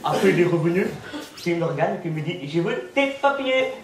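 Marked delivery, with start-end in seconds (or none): 2.5-3.7 stern policeman. Retold or imitated. Policeman's voice in story.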